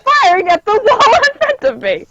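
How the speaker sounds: distorted, overdriven mic; fuzz distortion. Real, not acted. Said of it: "your mic, uh, is clipping a little when you're raising your voice that high".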